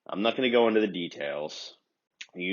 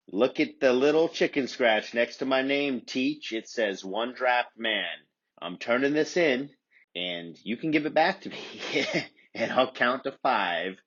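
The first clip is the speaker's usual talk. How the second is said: higher, sassy retort to teacher; cocky student; 5 semitones higher than usual. Retold or imitated. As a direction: talk back to the teacher with swagger. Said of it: "Well, I said".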